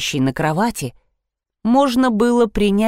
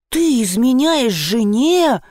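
slow, higher, outraged question; indignant; 5 semitones higher, slower than usual. Acted. Heroine confronts the cheating expert, indignant. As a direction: let the outrage stretch each word. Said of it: "возмутилась я".

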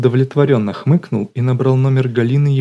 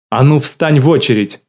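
a louder, higher shout at the dogs; barked order; 4 semitones higher, 5 dB louder than usual. Acted. Галина turning from the phone to shout at her dogs, a loud barked order. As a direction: snap at them to get in line.

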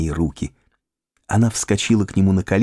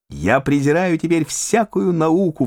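raised, bright outburst; exclaim; 9 semitones higher than usual. A narrator's reading. Raphael to Pauline, brushing science aside in elation. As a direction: fling it out. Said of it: "воскликнул Рафаэль".

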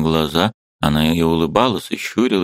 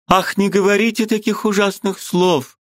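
высокий взволнованный женский голос; перебей его с ужасом; перебивая в ужасе. A narrator's reading. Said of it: "перебила его Варвара Павловна". (высоко, в ужасе перебивая)

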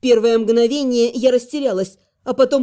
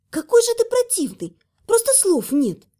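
exasperated; 7 semitones higher than usual. Acted. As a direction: throw it at him, fed up. Heroine scolds dragon.

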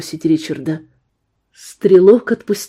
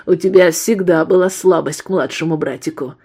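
nasty laugh. Acted. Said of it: "коротко и злобно хохотнул".

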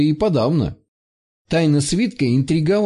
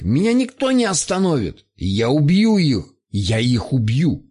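shrieking skeleton. A narrator's reading. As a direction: scream it like a dying monster. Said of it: "выплеснул под потолок изнемогающий визг".

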